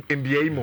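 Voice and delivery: "Mbeumo" said as im-bee-AY-mo; corrected pronunciation. Shown as a demonstration. Host correcting the player's name, careful pronunciation.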